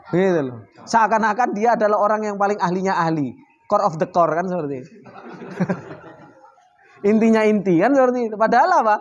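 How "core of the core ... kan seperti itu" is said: laughing mockery. Real, not acted. Mengejek komentator sok ahli.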